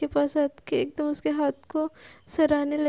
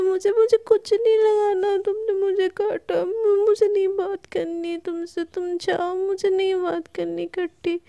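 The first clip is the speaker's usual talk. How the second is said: higher-pitched mock-hurt huffiness; sulky refusal; 5 semitones higher, 3 dB louder than usual. Palak rejecting her friend's remedy, sulky. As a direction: refuse all comfort in a childish huff. Acted sulk after being bitten.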